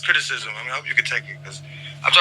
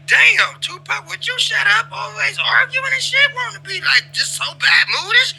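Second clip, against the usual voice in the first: much higher, slow mock whine with a shout at the end; mocking the crew; slower than usual. Imitating others complaining about the rapper, high mocking whine. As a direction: mimic the crew whining about him. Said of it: "y'all be like".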